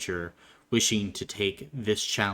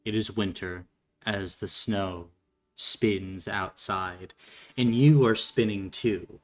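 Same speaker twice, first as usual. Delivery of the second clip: game master's scene setting. Acted. Game master paints a winter dance practice for the player, measured narration.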